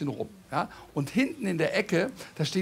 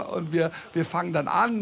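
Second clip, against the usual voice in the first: normal talking voice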